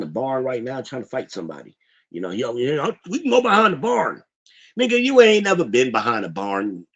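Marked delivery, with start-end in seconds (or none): 3.1-4.2 higher-pitched imitation of Biden; lightly mock an old politician's challenge; mock fighting challenge. Streamer mimicking Biden wanting a fight, high mocking voice.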